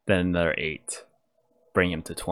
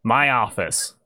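mild holler, pitched up; Clover; 5 semitones higher than usual. A narrator's reading. Boss summons someone over the parlor's murmur, mild holler. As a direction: call out curtly with a slightly raised voice. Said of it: "You hear Clover's voice holler".

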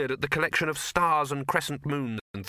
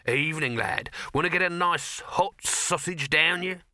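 higher, drawn-out hawker's patter; chummy sausage vendor; 6 semitones higher than usual. Acted. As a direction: sell it to the lad with slow relish. Dibbler the vendor pitches his sausages.

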